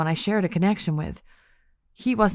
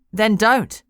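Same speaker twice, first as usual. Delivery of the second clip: sharp, louder retort; snapped; 3 semitones higher, 5 dB louder than usual. Acted. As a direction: bite the words off. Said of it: "she snapped".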